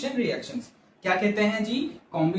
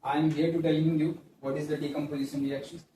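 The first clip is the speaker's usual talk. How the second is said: slow, lower teacherly answer to a pupil; reply patiently with a hint of ceremony; teacher's reply; 4 semitones lower, 5 dB quieter, much slower than usual. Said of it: "Wait, Balak".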